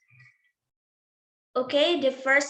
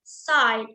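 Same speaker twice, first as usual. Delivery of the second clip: "side" said alone as a firm, falling stressed syllable; stressed final syllable; 4 dB louder than usual. Shown as a demonstration. Presenter singling out the stressed end of a word, "side" said firmly. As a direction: isolate "side" and press on it. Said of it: "Side di sini merupakan penekanan akhir".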